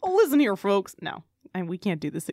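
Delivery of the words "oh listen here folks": a hint of cowboy announcer. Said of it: "cowboy voice".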